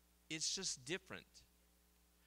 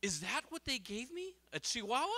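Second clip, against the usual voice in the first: higher and much louder, breaking into laughter; joke punchline; 9 semitones higher, 9 dB louder than usual. Acted. Blind man's friend asks bartender, laughing punchline. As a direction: deliver the punchline while cracking up. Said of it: "and the guy says".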